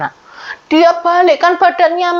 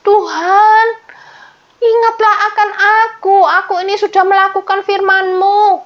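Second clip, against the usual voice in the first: raised, pleading prayer of a sick king; a hint of a tearful king at prayer; king praying in tears; 6 semitones higher than usual. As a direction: beg God to heal you, voice lifted and near song. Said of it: "Pada waktu itu dia berdoa".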